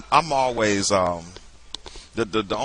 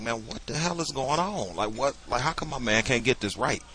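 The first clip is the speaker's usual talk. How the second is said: softer, lightly imitated mumble under the breath; mumbled aside; 4 semitones higher, 5 dB quieter than usual. Grumbling about the bad sound by the piano, mock mumble. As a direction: retell a muttered complaint, a bit softer. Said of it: "mumbled under my breath".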